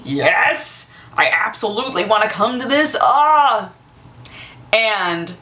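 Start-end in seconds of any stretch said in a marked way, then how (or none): 0.0-3.7 rising thrilled yes, ending in a squeal; so excited. Retold or imitated. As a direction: gush with delight. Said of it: "like, so excited".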